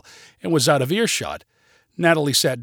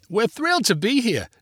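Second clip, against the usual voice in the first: high-pitched, eager greeting; reply loudly in a raised, lifted voice; 8 semitones higher than usual. A narrator's reading. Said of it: "Natalie loudly replied".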